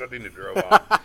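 laughing it out, high and loud. Real, not acted. Storyteller laughing at his own Paul Mooney story. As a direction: crack up at the punchline.

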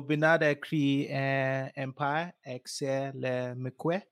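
slow, careful French. Pretend. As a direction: read French off a translator. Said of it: "Let me do my French".

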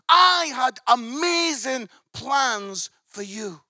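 urging with rising excitement; coach's impassioned pitch to his player; passionate plea. Acted. Pep pleading with his player.

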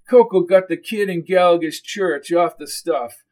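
agitated character recounting a feud. Acted.

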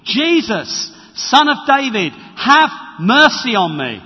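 loud, pleading call to Jesus; crying out for mercy. Acted. Blind beggar calling to Jesus over the crowd, a loud plea.

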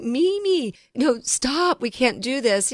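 high, pleading half-laugh, retelling; imitating a plea. Scolding her mother-in-law over bounced checks, high pleading.

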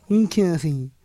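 usual speaking voice

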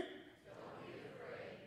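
slow whispered words. Shown as a demonstration. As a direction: whisper it slowly. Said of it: "Say it again".

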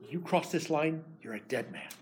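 a quiet, deadly warning. Acted. Laban's covenant curse voiced.

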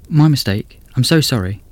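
put-on a nervous young estate agent; young woman voice. Gracie voiced in story.

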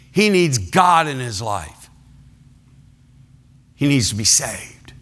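lightly voiced wife, near his own pitch, falling; same plea again, worn and flat; a hint of a weary wife asking for prayer; Joy's tired repeat. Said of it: "I need someone to pray for my husband".

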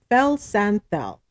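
"Fel Santhel" sounded out slowly; syllable by syllable. Real, not acted. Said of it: "gotta break it up in syllables".

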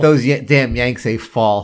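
slow, scornful British grumble; mock British accent. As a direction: grumble like an Englishman about Americans. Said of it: "on the other side of the pond".

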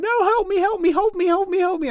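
high, whiny child's plea, imitated; hammed-up little girl begging for help; imitating crying child. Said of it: "crying and screaming".

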